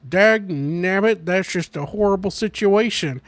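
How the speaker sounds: hammed-up soldier with tame cursing; movie soldier cursing mildly. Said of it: "the soldier goes".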